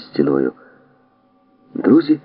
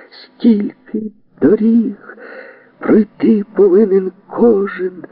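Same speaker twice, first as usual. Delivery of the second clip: very slow and drawn out, word by word; slow savouring; 14 semitones higher, much slower than usual. Acted. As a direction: taste each word as you repeat it. Benji repeats the phrase, savouring it.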